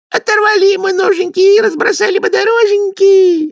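high, loud squealing glee; gleeful kikimoras. A narrator's reading. Kikimoras gleefully mimic Kuzka, loud high squeal. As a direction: squeal it out with delight. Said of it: "обрадовались кикиморы".

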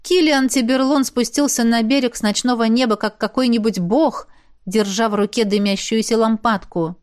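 usual speaking voice

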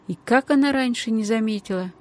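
ordinary delivery

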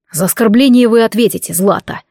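plain reading voice

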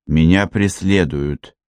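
out of breath, blurting it; gasping, urgent panting report; breathless. Acted. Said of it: "задыхаясь, выпалила Селеста".

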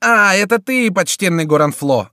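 high loud mock greeting; panting mocking cry; breathless shout. A narrator's reading. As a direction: shout as if just ran up. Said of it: "закричал Шико, запыхавшись".

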